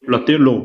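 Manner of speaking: লতে লো, the ল given an o sound as লো; ল উচ্চারণ লো-এর মতো. Shown as a demonstration. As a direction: say the ল in লতে লো as লো, rounded o vowel. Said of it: "আর লকে ওকারের মতো উচ্চারণ হবে".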